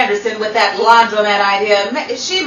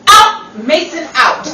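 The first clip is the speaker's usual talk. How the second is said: loud, higher command to leave; ordering out; 4 semitones higher, 5 dB louder than usual. Acted. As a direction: throw him out. Throwing him out.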